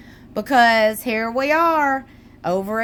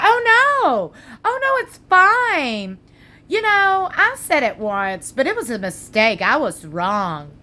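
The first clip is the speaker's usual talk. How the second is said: mock sweet voice; 3 semitones higher than usual. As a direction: mimic her sugary backpedal, mocking. Mocking Robin's sweet denial.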